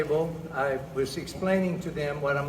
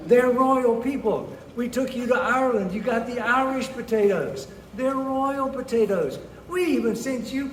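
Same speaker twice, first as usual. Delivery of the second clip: higher-pitched, mock-indignant lecture; exasperated father; 5 semitones higher than usual. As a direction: reason with your daughter in comic exasperation. Father lectures lovestruck daughter.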